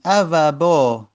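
each root letter drawn out slowly; slow spelling out. Shown as a demonstration. Teacher asking students to pay attention, slowly spelling out ا و با. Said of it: "دقت کنید".

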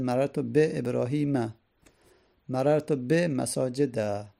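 final a sounded on Ibrahim and masajid; fatha endings sounded. Shown as a demonstration. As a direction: end both nouns on an open a.

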